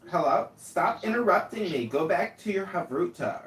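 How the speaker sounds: high and loud, fed up. Acted. Mock quarrel over interrupting.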